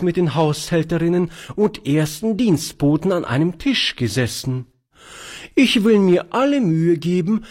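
high, prim, self-important lady; proud old spinster. Acted. Charlotte boasts of serving fine families, high prim voice. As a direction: put on airs like a proper housekeeper.

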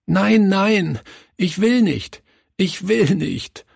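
put-on very high, distressed little boy; sobbing protest. A narrator's reading. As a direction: plead against it in a high child's voice, as if sobbing. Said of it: "schluchzte er". (hoch und schluchzend protestiert)

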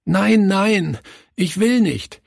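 high sobbing protest. A narrator's reading. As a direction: beg tearfully not to go. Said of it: "schluchzte er".

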